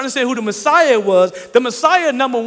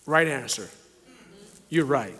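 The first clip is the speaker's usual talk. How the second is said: quiet affirmation; 9 semitones lower, 10 dB quieter than usual. Acted. Jesus affirms Peter quietly.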